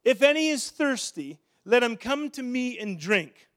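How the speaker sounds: crying out loud. Acted. Preacher quoting Jesus at the feast, crying out in a loud voice. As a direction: call it out to the whole crowd. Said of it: "he cried out in a loud voice".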